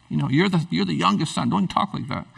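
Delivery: stern father dropping his volume; understated fatherly warning; serious rebuke. Acted. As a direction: quietly reprimand a youngest son. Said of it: "It was serious".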